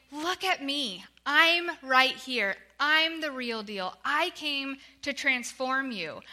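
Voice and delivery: slow, earnest pleading; gently insistent, drawn-out appeal; urgent loving plea. Acted. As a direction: plead with them out of love, stretching the words. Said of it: "urgently pleading with them".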